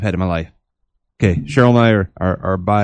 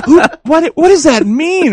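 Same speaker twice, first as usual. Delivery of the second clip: much higher, louder baffled question; 7 dB louder, slower than usual. Retold or imitated. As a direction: ask it completely lost. Baffled reaction in dream.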